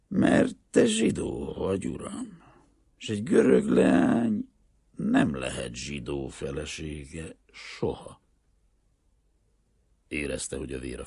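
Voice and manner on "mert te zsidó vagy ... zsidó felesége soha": resolute peasant father. A narrator's reading. Greek father telling the banker why he cannot marry her, resolute. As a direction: state it firmly, slowing at the end.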